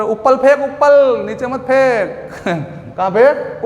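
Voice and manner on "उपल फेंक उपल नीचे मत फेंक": lisping man. Retold or imitated. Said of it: "एक तोतला आदमी हो गया".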